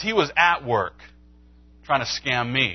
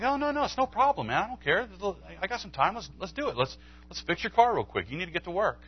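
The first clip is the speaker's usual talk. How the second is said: much higher, pressing, over-eager offer; pushy insistence; 7 semitones higher, 3 dB quieter, faster than usual. Retold or imitated. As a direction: insist cheerfully, refusing to take no. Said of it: "I'm like".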